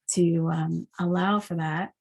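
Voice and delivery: talking through a yawn; words stretched by a yawn. Real, not acted. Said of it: "when I'm moving energy, I yawn".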